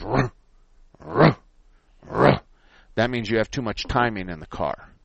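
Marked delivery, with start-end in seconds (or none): 0.0-2.4 slow, heavy, spaced-out ruh sounds; a struggling starter dragging over; slow labored engine cranking. Retold or imitated. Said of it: "and it goes".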